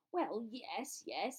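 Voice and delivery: brisk, brushing-off agreement; impatient. A narrator's reading. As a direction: concede it and wave it away. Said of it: "said Bagman impatiently".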